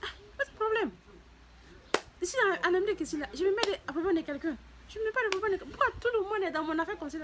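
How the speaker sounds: loud, high indignant retort; her sharp retort. Retold or imitated. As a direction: snap back at the nosy ladies. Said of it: "J'ai dit".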